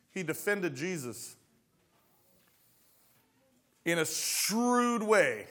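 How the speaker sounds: ordinary talk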